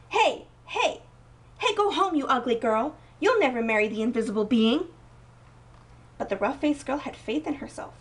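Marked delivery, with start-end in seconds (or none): 0.1-4.9 jeering crowd. A narrator's reading. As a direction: yell them off like a mocking mob. Villagers jeer at the girl.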